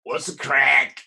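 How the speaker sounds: drawn-out imitated Irish catchphrase; attempted Viper accent. Guest urged to copy the character, attempted Irish accent. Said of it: "I don't think I should try that".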